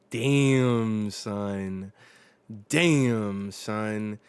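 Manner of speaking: shouted twice in amazement; loud hype shout. Real, not acted. Reading manga, shouting in awe at the villain's line. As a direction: yell it out, hyped by the panel.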